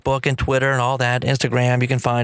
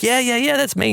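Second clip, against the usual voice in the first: excited; 10 semitones higher than usual. Retold or imitated. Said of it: "I'm like".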